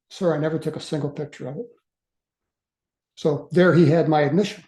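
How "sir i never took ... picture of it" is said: quick, unthinking reply; blurted out. Retold or imitated. Young airman answering the major without thinking, blurted out. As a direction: blurt it out in a rush. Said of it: "I blurted out".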